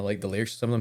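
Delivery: burp caught mid-sentence. Real, not acted. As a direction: talk through a small burp. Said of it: "excuse me, I'm burping".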